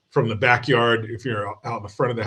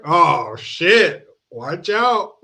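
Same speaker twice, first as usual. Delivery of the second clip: high, excited mock alarm; excited warning; 7 semitones higher, 7 dB louder, much slower than usual. Real, not acted. Dad warning about his handsome son, high and excited. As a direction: sound a playful alarm. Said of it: "joking about son's looks".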